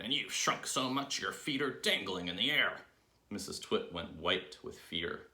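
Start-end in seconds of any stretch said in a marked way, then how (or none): 0.0-2.8 higher, emphatic exclamation; crying out. A narrator's reading. Husband mocking wife's dangling feet, crying out. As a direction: cry it out with pitch swooping up. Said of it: "he cried".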